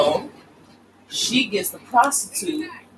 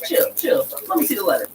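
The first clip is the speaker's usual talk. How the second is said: king calming everyone; 5 semitones higher than usual. Retold or imitated.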